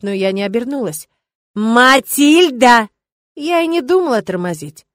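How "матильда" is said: loud, drawn-out call. Acted. Rector calling after the witch, slow loud call. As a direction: stretch the name to stop her.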